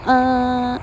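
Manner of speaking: 啊 sung up high on one note. Shown as a demonstration. Teacher sings the high syllable in a stress drill. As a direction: lift 啊 to a high pitch. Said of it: "第二个音节高叫做啊".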